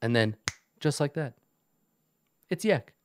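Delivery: pompous goblin boss, lightly voiced; Yek the goblin. Goblin boss boasts of his perfection to visitors, pompous. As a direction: grandly savor each pause, lightly in character.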